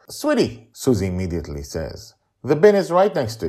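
high, sweet grandmother; high sing-song grandmotherly voice; grandma voice. Acted. Grandma Susie speaks gently.

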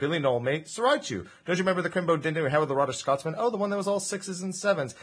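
exaggerated British slang voice; hammy Cockney patter; British accent.

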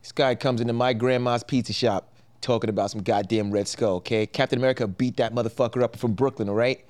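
put-on lightly done Brooklyn Italian wiseguy accent; a hint of a Brooklyn Italian pizza-shop guy griping. Brooklyn Italian grandson grumbling about a customer, in a light Brooklyn Italian accent. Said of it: "I'm Brooklyn Italian".

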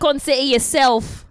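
Cockney accent, dropped letters; London street Cockney. Shown as a demonstration. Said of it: "We could do some Cockney".

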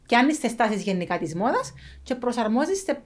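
everyday Cypriot Greek speech; cypriot greek accent. Real, not acted. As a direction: speak with a natural Cypriot accent. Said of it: "Cypriot speech throughout". (κυπριακή προφορά)

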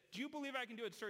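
single out the promoter; showman to promoter. Retold or imitated. Performer asks the promoter.

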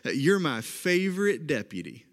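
a hint of Okie twang as Woody; Oklahoma accent. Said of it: "a little bit of my Oklahoma accent coming out".

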